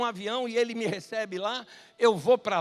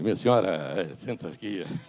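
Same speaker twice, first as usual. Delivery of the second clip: grave, very deep, low male voice. Retelling a man on a dark plane showing a woman her seat, deep male voice. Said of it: "O homem tinha uma voz grave".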